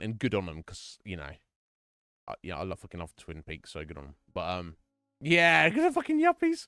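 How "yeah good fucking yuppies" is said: high laughing squeal of a jeer; high, giggling mock jeer at yuppies. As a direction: cackle it out like you're taunting the rich. Mocking rich yuppie tourists.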